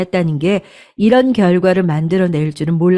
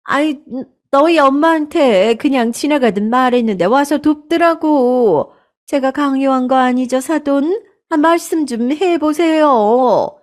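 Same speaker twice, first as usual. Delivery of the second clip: higher, whiny self-justifying tone; defensive mother-in-law; 7 semitones higher than usual. Acted. Mother-in-law excusing herself to the daughter-in-law, whiny. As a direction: brush off the blame.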